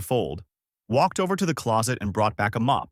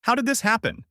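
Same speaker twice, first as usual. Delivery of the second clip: much higher, confused shout; bewildered yell; 12 semitones higher than usual. Acted. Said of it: "Luffy then yelled out".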